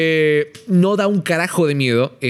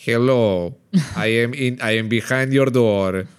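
imitating a creepy robot voice, slow; lower, slow robotic creep; 5 semitones lower, much slower than usual. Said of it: "una voz robótica que dice".

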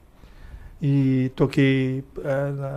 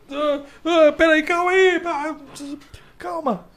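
higher, stammering rookie pleading for a moment; flustered rookie; 12 semitones higher than usual. Retold or imitated. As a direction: fumble and beg for time.

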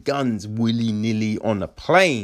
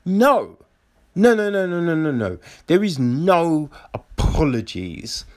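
insistent no; 3 semitones higher than usual. Retold or imitated. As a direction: cut off the apology firmly. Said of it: "And be like".

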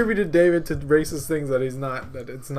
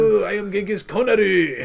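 Sean Connery impression; 4 semitones higher, 6 dB louder than usual. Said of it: "shitty fake Asian accent".

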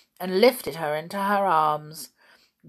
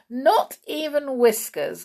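giggling; 7 semitones higher, 5 dB louder than usual. A narrator's reading. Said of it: "giggled Binky".

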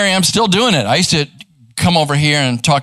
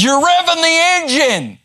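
mock angry; 13 semitones higher than usual. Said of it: "he was just really mad".

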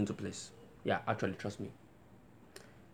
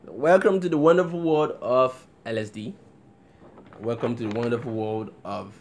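ringmaster; 9 dB louder than usual. Pretend. Echoing the song's ringmaster intro.

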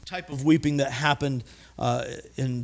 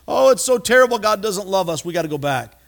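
mock wailing; 4 semitones higher, 5 dB louder than usual. Weeping people lament.

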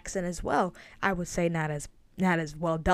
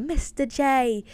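lightly imitated Harley Quinn accent; 6 semitones higher, slower than usual. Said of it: "without the accent of Mister J".

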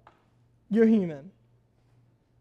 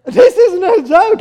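mock serious; 6 semitones higher, 7 dB louder than usual. Real, not acted. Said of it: "I'm dead serious".

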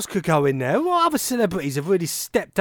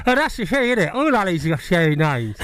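talking through a mouthguard; words slurred round a mouthguard; wearing a mouthguard; 3 semitones lower than usual. Real, not acted. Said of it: "I'm sorry?".

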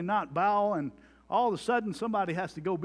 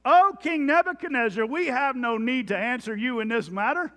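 defiant reply; 3 semitones higher, 4 dB louder than usual. Acted. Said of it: "Abednego answered and said".

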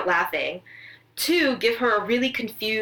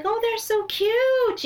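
gushing celebrity; 14 semitones higher, much slower than usual. Retold or imitated. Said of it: "she's like".

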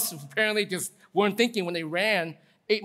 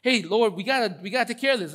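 quick, higher plea to a boss; hurried, pitched-up appeal; urgent disciples; 3 semitones higher, 4 dB louder than usual. Acted. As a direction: act out worried followers pressing for help. Disciples urgently pestering Jesus, acted.

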